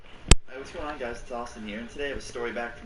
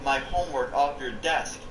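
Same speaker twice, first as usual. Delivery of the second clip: screaming; 6 semitones higher than usual. Retold or imitated. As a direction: yell it up high at the teacher. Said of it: "I started screaming".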